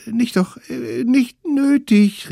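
put-on very high, nervous children backing off; high flustered kid voice; hasty kids' cry. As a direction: back down quickly like scared little kids. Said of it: "riefen die kleinen Wilden".

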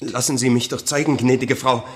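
a mildly pleading peddler at the door; a hint of a desperate salesman's plea. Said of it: "so flehende Stimme".

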